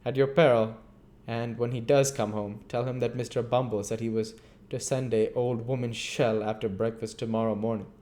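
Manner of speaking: pompous orders. Acted. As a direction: lay down the law. Bumble ordering them.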